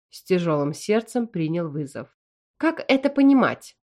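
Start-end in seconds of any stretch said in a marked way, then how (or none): 2.6-3.8 sharp, raised stern demand; a mother calling her son to account, hard; strict, louder and higher; stern question. A narrator's reading. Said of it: "очень сурово спросила Валорка".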